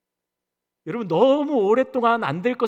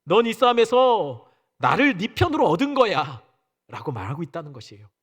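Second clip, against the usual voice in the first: ordinary talk, nothing marked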